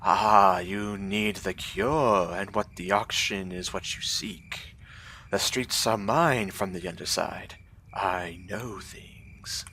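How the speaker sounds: a lightly voiced, bright, odd gnome; cheerful mad gnome. Beggar gnome thanking a generous stranger, bright and strange. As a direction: sound pleased and a little unhinged.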